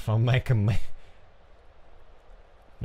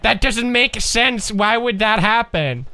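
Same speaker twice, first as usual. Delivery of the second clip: baffled viewer; 9 semitones higher, 4 dB louder, slower than usual. Retold or imitated. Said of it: "in horror movies when you're like".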